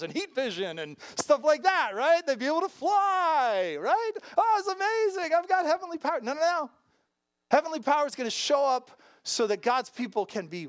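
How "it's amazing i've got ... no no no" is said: ordinary talk, nothing marked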